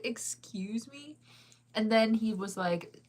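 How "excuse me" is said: slow, breathless whisper of disbelief; stunned whisper. Retold or imitated. Whispering in disbelief at her date's accusation, slow and stunned. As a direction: whisper it slowly, like you can't believe what you heard.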